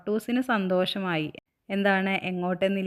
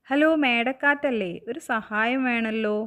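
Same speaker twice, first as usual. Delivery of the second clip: higher-pitched acted phone greeting; phone caller; 4 semitones higher than usual. Moon uncle phoning the wind for help, calling out. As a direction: call up a friend for a favour, voice lifted.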